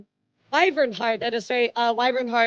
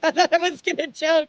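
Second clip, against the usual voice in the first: laughing through the words; real laugh, a bit louder; 4 semitones higher, 4 dB louder than usual. Real, not acted. Repeats line laughing.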